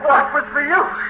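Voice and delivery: high-pitched, rushing, half-mad; a man unravelling as the fire starts; frantic despair. Acted. Setting the house on fire.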